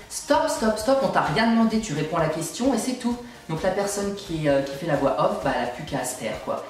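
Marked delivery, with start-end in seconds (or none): 0.1-3.2 exasperated high-pitched shout of stop; ranting comic. Pretend. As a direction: cut him off, fed up and loud. Scolding the know-it-all champion.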